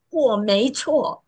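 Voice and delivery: measured, emphatic self-defence; imitated loud declaration. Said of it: "他最有理由大声地说".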